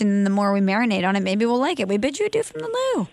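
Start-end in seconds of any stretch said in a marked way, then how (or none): 1.9-3.1 squeaky high, quick and thin; silly falsetto sign-off; high annoying voice. Shown as a demonstration. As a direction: pitch it way up, fast and silly. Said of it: "say it in that really high, annoying voice".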